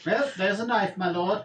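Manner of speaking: lightly voiced goblin; goblin servant. Goblin answers the threatening lord, lightly voiced. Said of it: "a goblin comes up to you and he's like".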